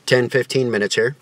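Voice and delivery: talking with snus tucked in lip; lip full of snus. Real, not acted. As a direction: speak around a pinch in the upper lip. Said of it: "soaked in my lip".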